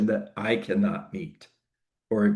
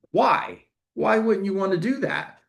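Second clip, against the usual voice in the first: high-pitched, puzzled 'why' of a startled seller; taken aback; 10 semitones higher than usual. Acted. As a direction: ask it in baffled disbelief, pitched high. Acting the startled seller's reaction.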